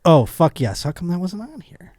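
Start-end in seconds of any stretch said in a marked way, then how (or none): 0.0-0.8 mock dramatic reading. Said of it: "You say".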